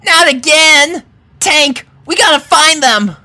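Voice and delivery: high, loud panicked cry; urgent, frantic call to act. A narrator's reading. Panicked search for missing pugs.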